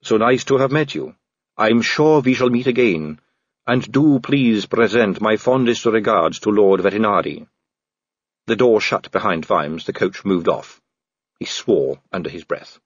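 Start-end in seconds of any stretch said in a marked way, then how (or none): 0.0-7.5 lightly voiced, self-possessed vampire lady. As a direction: play the urbane vampire politician, only lightly. Vampire lady's farewell.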